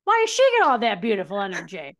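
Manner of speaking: playful retold outrage; indignant complaint. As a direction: complain loudly about the unfairness.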